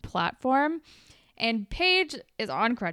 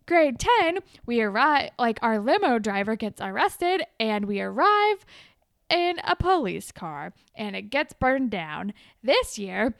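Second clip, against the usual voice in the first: higher and louder whiny rant; hammed-up sulky listing, higher and louder; mock complaining tirade; 3 semitones higher, 5 dB louder than usual. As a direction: list the woes like a bitter diva. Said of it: "She's like".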